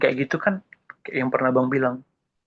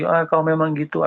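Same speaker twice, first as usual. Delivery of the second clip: sulky anger; 4 semitones higher than usual. Acted. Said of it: "Akhirnya dia marah lagi".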